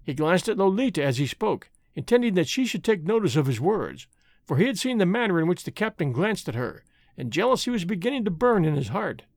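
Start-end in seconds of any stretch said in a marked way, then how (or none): none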